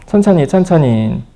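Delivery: "천천히" drawn out slowly, x0.7; breathe-in cue, stretched and calm; slow guiding voice. Shown as a demonstration. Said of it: "들이마시세요". (천천히를 길게 늘여 천천히 말하기)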